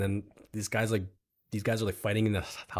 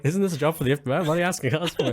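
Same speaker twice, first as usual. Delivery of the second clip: higher-pitched mock disbelief; incredulous; 7 semitones higher, faster than usual. Player questioning the FBI agent's request, incredulous. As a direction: question it as if it makes no sense.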